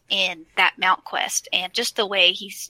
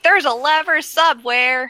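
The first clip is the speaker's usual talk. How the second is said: higher and louder, eager; bursting with discovery; mock-eager Bran; excited Bran; 6 semitones higher, 5 dB louder than usual. Excited Bran voiced in retold scene.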